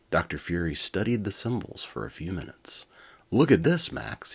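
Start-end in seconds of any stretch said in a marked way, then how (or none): 3.3-4.3 high and loud, eager discovery; excited. Acted. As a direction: burst out with excitement. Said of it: "he said excitedly".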